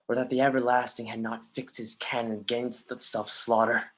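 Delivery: ordinary talk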